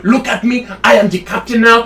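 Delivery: lightly done movie-pirate accent; a hint of a pirate accent taking over the ship; restrained pirate accent, not shouted. Shown as a demonstration. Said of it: "I know two pirate accents".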